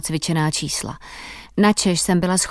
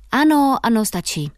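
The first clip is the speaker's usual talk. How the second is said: higher call that quickly drops off; mildly raised, hurried dismissal; 4 semitones higher than usual. A narrator's reading. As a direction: cut the performer off from the jury. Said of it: "volalo najednou několik porotců".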